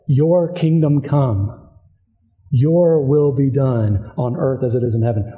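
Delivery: the Lord's prayer, said slowly and reverently; slow prayer recital. Pretend. Preacher reciting the prayer Jesus taught, slow and reverent. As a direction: pray each word with weight. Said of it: "prayer that Jesus taught us to pray".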